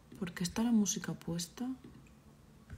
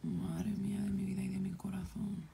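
dismayed whisper, softer; 4 dB quieter than usual. Real, not acted. Player despairing over the mess as the adults sleep, dismayed whisper. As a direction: breathe it out in a whisper.

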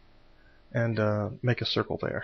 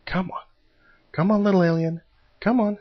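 taunting; 8 semitones higher, 5 dB louder than usual. Real, not acted. Taunting alien in combat.

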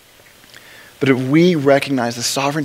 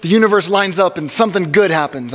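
wistful hope; 2 semitones higher than usual. Retold or imitated. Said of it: "wistfully hoping".

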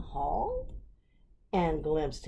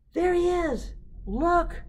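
high, loud excited yell; 13 semitones higher, 8 dB louder than usual. Acted. Daisy yelling at parents to see the rhino, high and loud. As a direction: shout it high to get them to look. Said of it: "Daisy yelled".

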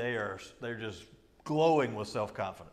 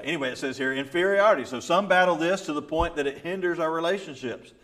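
ordinary talk

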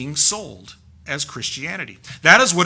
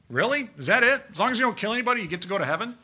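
incredulous; 5 semitones higher, 3 dB quieter, much faster than usual. Real, not acted. Preacher scoffs at works salvation.

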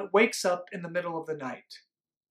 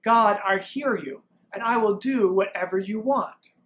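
group response; 4 dB louder than usual. Shown as a demonstration. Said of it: "and we say".

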